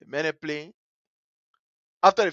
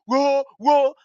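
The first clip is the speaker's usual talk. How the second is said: mock wail, somewhat raised; retold holler; 5 semitones higher, 4 dB louder than usual. Little brother on the ground after a slap, mock holler. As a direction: imitate hollering, voice lifted.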